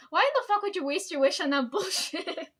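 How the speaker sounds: loud, high, laughing disbelief; incredulous outburst. Retold or imitated. Coworker scoffing at a world peace wish, loud and laughing.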